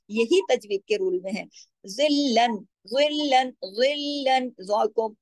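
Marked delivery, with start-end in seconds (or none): 1.9-4.5 जिल्लन with thick first letter, doubled light l; heavy za. Shown as a demonstration. Teacher drills heavy beside light, जिल्लन recited slowly. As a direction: thicken the z of जिल्लन, hold the thin l. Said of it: "ज़ा को मोटा".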